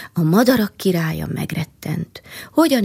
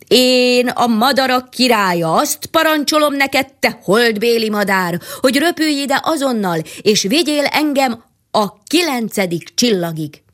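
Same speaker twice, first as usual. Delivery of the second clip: royal command; 4 semitones higher than usual. Acted. King commands the moon bird.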